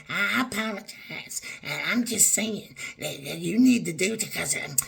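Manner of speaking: lightly voiced grudging relative, muttered soft; mock mumbled apology. Mocking a relative's weak apology, half-hearted. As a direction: mimic their half-hearted sorry. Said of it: "You don't get to talk to me like".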